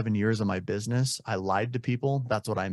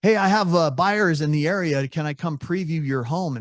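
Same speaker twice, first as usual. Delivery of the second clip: mock pushy agent; 4 semitones higher than usual. Agent cold-calling a seller, mock salesy pitch. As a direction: ham up the fake-buyer line. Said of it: "don't agree with the scripts that say".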